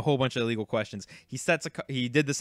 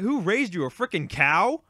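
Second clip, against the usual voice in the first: high, incredulous retold question; indignant comeback; 5 semitones higher than usual. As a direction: scold a rude kid in mock disbelief.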